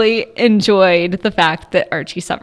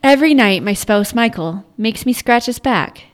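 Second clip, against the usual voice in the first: serial killer. Acted. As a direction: read it like a calm serial killer. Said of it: "You sound like a serial killer".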